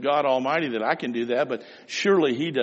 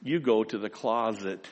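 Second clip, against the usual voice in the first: slow, gentle instruction; 5 semitones lower, slower than usual. Retold or imitated. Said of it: "Jesus said".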